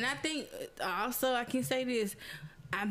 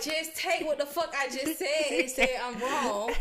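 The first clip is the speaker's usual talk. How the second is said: half-laughing frustrated shout at the partner; loud exasperated venting; 2 semitones higher, 5 dB louder than usual. Retold or imitated. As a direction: yell it like you've had enough.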